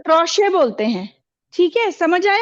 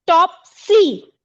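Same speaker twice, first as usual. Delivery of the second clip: टॉप सी very slow, split in two, weight on टॉप; stress on first syllable; 4 dB louder, much slower than usual. Shown as a demonstration. Teacher gives a trochee example, टॉप सी with टॉप stressed. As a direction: punch टॉप, then draw out सी in टॉप सी. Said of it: "इसमें stress syllable पहले है".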